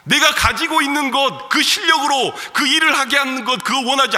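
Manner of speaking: loud, high, fervent preaching. Acted. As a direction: drive it home from the pulpit. Preaching at full force. (힘차게 외치는 설교)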